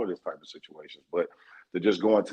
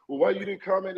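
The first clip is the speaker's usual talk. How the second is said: quoting the podcaster; 9 semitones higher than usual. Retold or imitated. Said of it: "he said the same shit".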